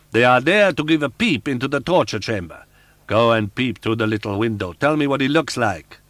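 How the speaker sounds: angry roar. Acted. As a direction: roar at her in fury. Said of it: "the angry voice roared".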